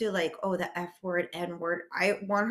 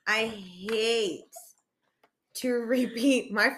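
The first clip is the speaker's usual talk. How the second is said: laughing; 3 semitones higher, much slower than usual. Real, not acted. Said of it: "I'm getting mad right now".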